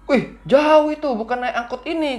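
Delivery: the driver is taken aback at how far it is; surprised driver. Retold or imitated. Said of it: "kata, kata supirnya itu".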